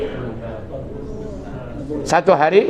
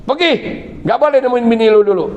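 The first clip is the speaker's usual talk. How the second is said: shooing him off, higher and quicker; mother-in-law driving the husband away, hammed-up anger; mock scolding; 5 semitones higher, faster than usual.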